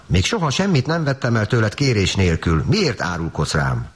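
a wronged sister pleading; hurt little girl. Acted. Offended little sister protests. (sértődött kislányhang)

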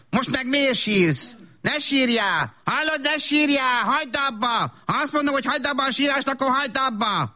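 put-on mother snapping at a crying toddler; scolding. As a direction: nag the crying child to stop.

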